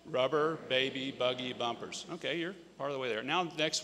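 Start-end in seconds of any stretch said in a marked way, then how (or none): 0.0-2.0 slow practice. Shown as a demonstration. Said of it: "So try that one with me".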